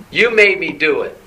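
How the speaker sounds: loud, accusing mock brat complaint; spoiled brat. Preacher acts out the people blaming God, like a spoiled brat. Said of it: "It's like a spoiled brat".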